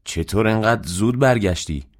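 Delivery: understated yell of surprise; mild acted shout. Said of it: "داد زد".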